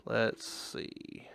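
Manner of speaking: soft unvoiced whisper. Real, not acted. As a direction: whisper it to yourself. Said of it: "whispering while searching".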